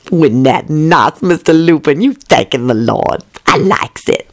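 slow teasing maid; Southern maid voice. Acted. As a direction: tease him slowly. Voices Lucretia.

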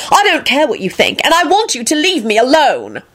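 high, heated rebuff; exasperated outburst without much volume; angry yell. A narrator's reading. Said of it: "Elizabeth yelled".

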